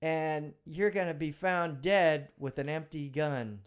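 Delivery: officer scolding himself, mock furious; self-berating rant. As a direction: chew yourself out like a furious sergeant. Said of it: "And I'm thinking".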